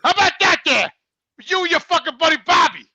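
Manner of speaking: roast your buddy with a fake yell; mock angry rant.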